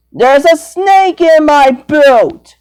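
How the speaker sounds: mock cowboy drawl on the catchphrase; hammed-up Sheriff Woody impression. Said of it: "I don't sound like that".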